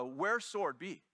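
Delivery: slow halting broken English, careful. Retold or imitated. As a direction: sound out the broken English slowly. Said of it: "so she says".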